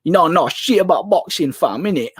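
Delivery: lightly imitated London road man; slangy road-man talk, lightly put on; Hatman. Streamer showing how Hatman used to talk, light road-man impression. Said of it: "he was like the road man".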